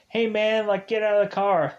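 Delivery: high, loud panicked shout; alarmed yell. Retold or imitated. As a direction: yell at your friend to stop driving. Kyle yelling at reckless driver.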